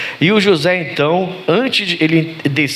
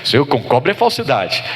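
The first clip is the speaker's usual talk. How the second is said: amused mock quote, laugh breaking in; laughing mockery. Mocking a dream interpreter, laughs.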